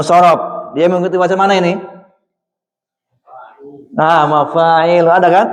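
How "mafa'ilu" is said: "mafa'ilu" drawn out slowly for the class; slow model reading. Shown as a demonstration. Teacher showing the class the wazan pattern slowly. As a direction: stretch "mafa'ilu" syllable by syllable. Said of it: "teacher shows the wazan".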